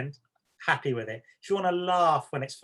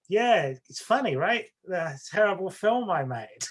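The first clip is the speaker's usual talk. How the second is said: mock cheerful director; 4 semitones higher than usual. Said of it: "he's like".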